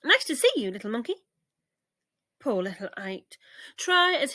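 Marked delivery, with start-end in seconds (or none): 0.0-1.2 parrot voices. Acted. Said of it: "called out".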